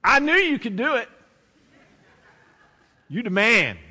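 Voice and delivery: triumphant cheer. Pretend. Patient cheering his knee after the shot, triumphant cheer. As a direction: cheer it like you just won.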